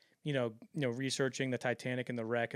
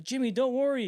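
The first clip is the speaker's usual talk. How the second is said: soothing executive voice; 10 semitones higher, 5 dB louder than usual. Retold or imitated.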